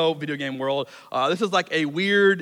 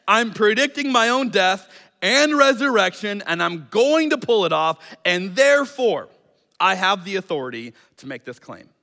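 firm, deliberate declaration in Jesus' voice; voicing Jesus; 3 semitones higher, 4 dB louder than usual. Preacher voicing Jesus to the congregation, firm and deliberate. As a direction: lay out the claim with measured authority. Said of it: "This is Jesus' argument".

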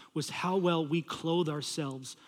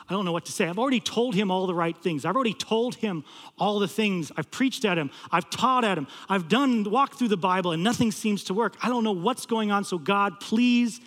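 mounting, higher-pitched desperate prayer; retold scared plea; 4 semitones higher, 4 dB louder than usual. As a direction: build to a louder, higher plea on the last word. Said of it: "I am scared".

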